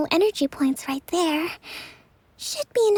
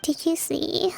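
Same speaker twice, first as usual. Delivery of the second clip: sleep talking. Acted. Kokomi still talking in sleep.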